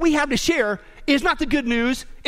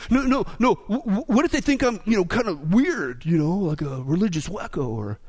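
nervous stammer; 3 semitones lower than usual. Retold or imitated. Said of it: "you heard the comments".

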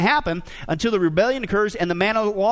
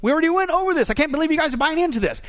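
emphatic disbelief; 6 semitones higher than usual. Retold or imitated. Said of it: "He's very emphatic about it".

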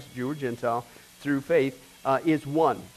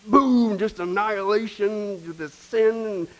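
wrath about to burst; 3 semitones higher, much slower than usual. Acted. God's pent-up wrath voiced.

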